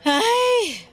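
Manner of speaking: startled exclamation. Acted. Mother reacts to father's arrival.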